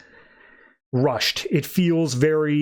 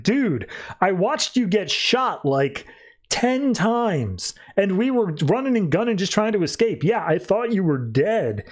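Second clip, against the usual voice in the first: higher-pitched mock disbelief; lightly acted astonishment, pitch raised; retold incredulous protest; 5 semitones higher than usual. Acts out Slade's incredulous protest.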